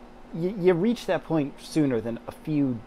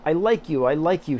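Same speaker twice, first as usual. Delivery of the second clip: happy cry; 3 dB louder than usual. Acted. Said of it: "she cried out".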